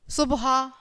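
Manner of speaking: "सुबह" squeezed to sub-haa; misspelt option. Shown as a demonstration. Teacher reads children a quiz option, "सुबह" as subhaa. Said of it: "शुद्ध शब्द कौन सा है".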